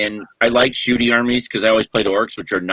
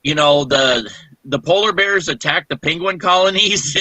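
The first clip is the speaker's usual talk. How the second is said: mock innocent question; 5 semitones higher than usual. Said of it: "so I'm like".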